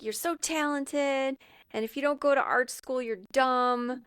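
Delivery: retold yelling. Corey to A J on the roof, mildly mock yelling. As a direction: imitate her scolding without real volume. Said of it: "starts yelling at him".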